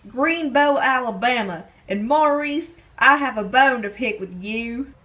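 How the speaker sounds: put-on Southern accent from Alabama; phony Alabama accent. Stranger from Greenbow with a bone to pick, phony Alabama accent. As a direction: play it with a fake Alabama accent. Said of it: "you can take that phony accent".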